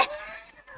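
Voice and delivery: high exasperated laugh. Real, not acted. Exasperated mid-rant outburst.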